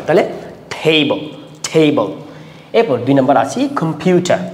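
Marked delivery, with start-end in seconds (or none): 0.8-2.1 "টেবল" with the weight on the opening টে; first-syllable stress. Shown as a demonstration. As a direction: lean on টে in "টেবল", letting বল fall away. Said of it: "প্রথম সিলেবলতে stress".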